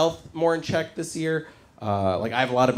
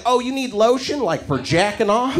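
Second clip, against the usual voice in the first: mock clerk; 6 semitones higher than usual. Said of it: "They'd be like".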